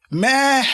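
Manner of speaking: high squeaky bleat; goofy false start, up high; silly high meh. Shown as a demonstration. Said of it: "that's not how that goes".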